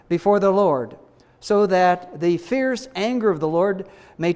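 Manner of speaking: measured, emphatic Bible reading; scripture reading. Real, not acted. Preacher reads Israel's sin to the congregation, measured scripture reading. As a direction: read the passage out to a congregation, deliberately.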